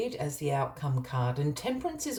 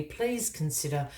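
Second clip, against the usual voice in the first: talking through a hiccup; words broken by hiccups. Real, not acted. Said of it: "I've got the hiccups".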